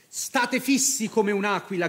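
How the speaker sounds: a proud captain's call to stand firm; rally the troops like a captain; loud rallying call to frightened soldiers; rallying cry. Acted. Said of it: "gridò Marco".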